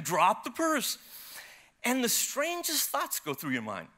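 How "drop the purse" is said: raised, urgent mock yell; retold yelling. Husband answering over his wife to the thief, mock yell. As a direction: call out the demand mid-chase. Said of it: "I'm yelling".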